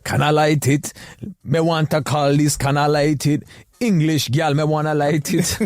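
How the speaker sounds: put-on a lightly butchered Jamaican accent; faint mock Jamaican accent. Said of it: "using a Jamaican accent".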